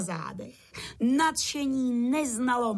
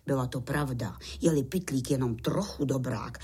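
plain reading voice

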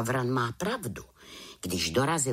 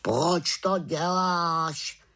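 high, drawn-out raven voice; questioning raven; 6 semitones higher, 3 dB louder, much slower than usual. A narrator's reading. Raven asks the witch about her prank, drawling high. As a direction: stretch the question slowly in a high bird voice.

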